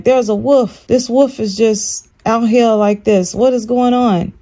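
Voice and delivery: mock freaking out, not shouted; retold freak-out. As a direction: retell your alarm with a touch of panic. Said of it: "I started freaking out".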